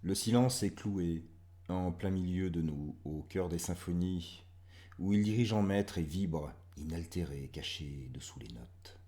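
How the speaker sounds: measured reading with strong line openings; poem recitation. Acted. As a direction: press each poetic question, then ease off.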